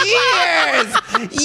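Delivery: "years" ending on a long hissing s, pitched high with a laugh; drawn-out s like a snake. Shown as a demonstration. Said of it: "years with an S".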